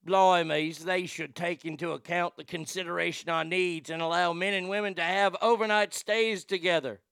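mock British inmate reading a quote; British-accented formal complaint, lightly mocking. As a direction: put on a hammed-up British accent. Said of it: "then she has a British accent".

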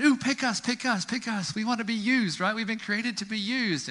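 high, pleading little voice of light bulbs; a hint of a chirpy light bulb; eager light bulbs. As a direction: beg to be picked like toys on a shelf. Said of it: "they're sitting there on the shelf saying".

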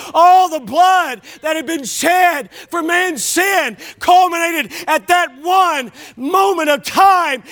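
slow, emphatic preaching; real sermon crescendo, drawn out. Real, not acted. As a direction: drive each phrase home from the pulpit.

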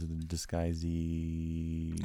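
character voice. Shown as a demonstration. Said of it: "the one dude in Master Disguise".

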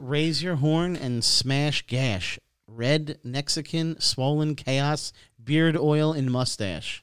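drawn-out, hammed-up reading of a donation message; mock grand, very slow announcement; slow dramatic reading. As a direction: read it slowly like an epic proclamation. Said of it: "He says".

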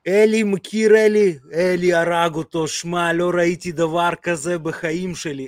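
put-on slow and loud, doing a Russian accent in Hebrew. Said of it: "אני אעשה מבטא רוסי".

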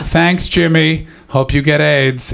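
slow, drawn-out fake gratitude; mock sarcastic thanks. Comic leaving, answering his flatmate, slow sarcastic thanks. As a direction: stretch out the thanks, dripping sarcasm.

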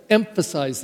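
emphasize set off by a pause and leaned on; deliberately weighted "emphasize"; stress on emphasize. Shown as a demonstration. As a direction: give "emphasize" extra weight on its first syllable. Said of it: "like I just emphasized".

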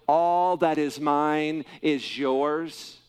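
very slow, each word set apart at normal volume; slow emphatic repeat. Acted. Preacher repeats the promise for the congregation, slow and deliberate. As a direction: lay out every word deliberately. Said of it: "why he did not understand that last statement".

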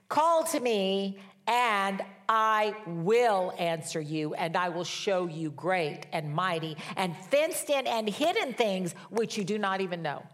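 slow, weighty proclamation of a verse; emphatic scripture reading. Acted. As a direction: declare the promise word by word, stretching the key words. Reads scripture emphatically to congregation.

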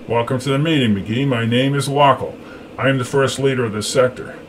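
lightly voiced leader figure; a hint of a formal commander; commanding first leader. A narrator's reading.

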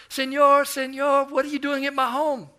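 put-on high, loud child's call; little boy calling out. Boy on bicycle calls to the preacher at his home, high and loud. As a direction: call out like a small boy on a bike.

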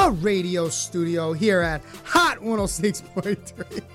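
normal talking voice

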